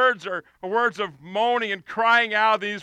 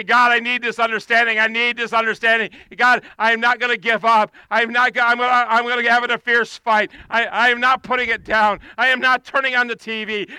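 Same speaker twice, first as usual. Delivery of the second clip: crying out; 5 dB louder than usual. Acted. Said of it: "the psalmist crying out to God".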